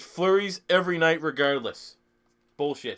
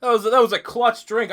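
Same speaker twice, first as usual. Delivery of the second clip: excited hype; 6 semitones higher, 7 dB louder, slower than usual. Real, not acted. Hyped after drinking on stream.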